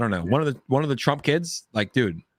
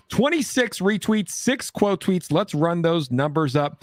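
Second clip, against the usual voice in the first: hype announcing; 6 semitones higher, slower than usual. Real, not acted. Hyping retweet numbers.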